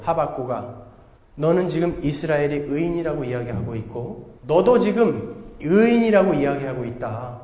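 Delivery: 낮고 무게 있게 타이르는 하나님; 선지자를 조용히 꾸짖듯 말하기; 하나님의 음성. Acted. 하나님의 말씀을 낮게 연기. (하박국을 타이르는 하나님의 낮은 목소리)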